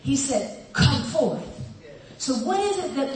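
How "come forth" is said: called out. Acted. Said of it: "called it".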